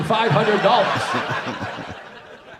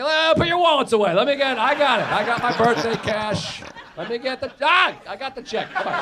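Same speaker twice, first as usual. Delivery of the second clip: put-on kid picking up the bill; 4 semitones higher than usual. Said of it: "They're never like".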